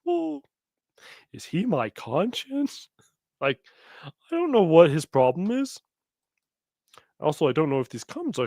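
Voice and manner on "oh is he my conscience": mock awestruck fan. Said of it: "Michael Matt was like".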